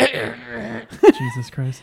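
high, drawn out, laughing hard; gasping through laughter. Real, not acted. Laughing after someone choked.

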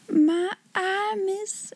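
high-pitched amazed Becky; astonished exclamation. A narrator's reading. Servant Becky amazed by the banquet, astonished exclamation. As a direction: blurt it in high, softening wonder. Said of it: "ejaculated Becky".

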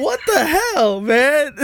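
laughing exclamation. Real, not acted. Laughing at his own joke.

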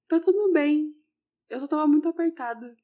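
a hint of a small girl reassuring the adult; lightly voiced little girl. Little girl answers the teacher.

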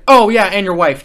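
retold calling after. Owner to employee walking away, retold loud parting shot. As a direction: throw it loudly after someone leaving.

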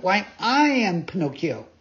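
high, excited announcement; eager puppet boy. Acted. Pinocchio telling the pigeon who he is, eager and high. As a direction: claim the name eagerly.

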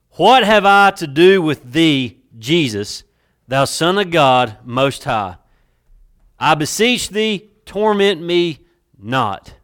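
loud, slow, drawn-out demon cry; tormented demon pleading at full force; demonic voice. Acted. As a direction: draw it out high and loud, possessed. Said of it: "try to put a demonic spin on this".

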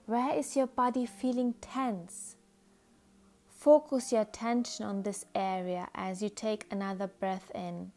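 calm, measured meditation guide with unhurried pauses; soothing guided-imagery voice, phrase by phrase. Acted. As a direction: gently lead the listener into relaxation.

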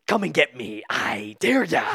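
taunting the tribe like Ace; mock taunt. Retelling Ace taunting the tribe, mock cocky dare. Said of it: "He's like".

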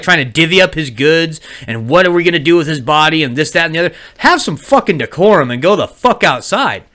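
retold scolding rant. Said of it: "I was like".

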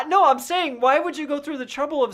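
high, laughing disbelief; laughing protest. Real, not acted. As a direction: push back through laughter.

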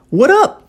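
"What up" with tapped T and unreleased P, pitched high; swallowed final P. Shown as a demonstration. Teacher showing the P swallowed, high rising "What up". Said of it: "Olha como é que eu engoli".

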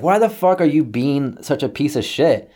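exasperated retold challenge; angry retort. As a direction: argue back, mildly heated. Acted phone quarrel with dad.

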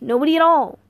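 loud, emphatic denial; irritated snap. A narrator's reading. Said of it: "I snapped".

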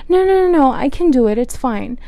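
high, loud nurse cutting her off; insistent nurse. Retold or imitated. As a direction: brush the patient off with a pushy no. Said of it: "she was like".

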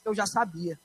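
said softly, falling away: eu já sabia; hushed mother's confession; mother softly admits she knew; mother's quiet reply. Retold or imitated. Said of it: "ela pegou e disse".

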